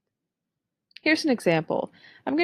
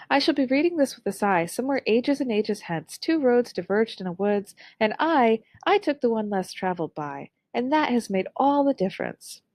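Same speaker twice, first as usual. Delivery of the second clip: cheery reading; 2 semitones higher than usual. Shown as a demonstration. Teacher shows how a cheery voice spoils the poem, upbeat. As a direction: read it as if it were happy news. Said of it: "If this excerpt were to be read with a cheery voice".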